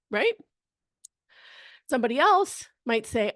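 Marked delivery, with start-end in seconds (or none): none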